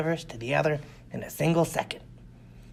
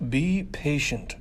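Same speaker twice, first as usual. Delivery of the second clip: snapped; much slower than usual. Acted. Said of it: "snapped Clint".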